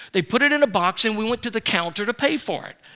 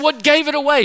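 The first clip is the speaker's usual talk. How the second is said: caught-out laugh, higher and louder; laughing question; 6 semitones higher, 5 dB louder than usual. Retold or imitated. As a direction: laugh it out, busted and amused. Caught out, teasing wife.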